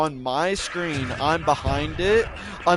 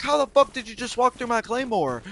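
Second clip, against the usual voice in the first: much higher, disbelieving; can't believe what just happened; incredulous outrage; 8 semitones higher than usual. Retold or imitated. Confronting Sam about his claymore, a much higher incredulous outburst.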